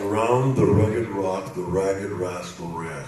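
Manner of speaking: Schots accent, rustiger herhaald; Scottish accent. Shown as a demonstration. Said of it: "If you're Scottish, you understand this".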